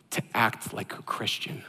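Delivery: hushed, soft whisper. Acted. Pastor hushing the church on the key line, whispered. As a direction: drop to a whisper for the point. Sermon closing hush.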